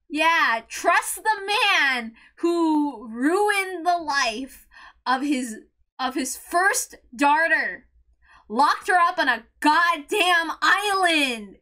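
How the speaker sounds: slow, dragged-out bitter sarcasm. Real, not acted. Fan ranting at Genji's choice, slow bitter sarcasm. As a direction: spell out the absurdity slowly.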